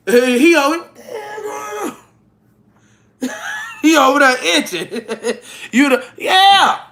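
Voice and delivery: squeals of laughter breaking through the words; barely gets it out for laughing; laughing hard. Real, not acted. Teasing a friend about her revenge, helpless laughter. Cracking up at her own joke.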